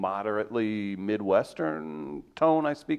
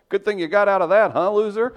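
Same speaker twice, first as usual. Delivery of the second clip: mocking sneer; 9 semitones higher, 5 dB louder than usual. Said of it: "you're like".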